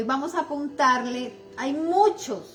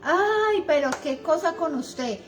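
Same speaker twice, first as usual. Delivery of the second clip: whiny exasperated nagging, exaggerated interjections; nagging wife; 2 semitones higher than usual. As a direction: imitate a wife nagging her husband. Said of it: "diciéndole a mi esposo".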